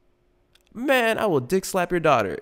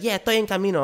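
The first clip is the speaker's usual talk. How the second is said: higher, offhand Spanish "estoy en camino"; Spanish-speaking lady; 9 semitones higher, faster than usual. Retold or imitated. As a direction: brush him off in Spanish. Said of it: "She's like".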